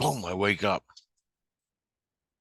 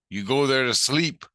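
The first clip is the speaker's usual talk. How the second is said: raised, emphatic explanation; explaining Jesus Christ; 5 semitones higher, 5 dB louder than usual. Retold or imitated. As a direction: explain loudly, lifting the last word. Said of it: "He goes".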